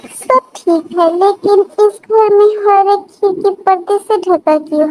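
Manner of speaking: lightly voiced marvelling wife; a hint of wonder, slightly lifted voice. Wife admiring husband's palatial house, lightly voiced wonder.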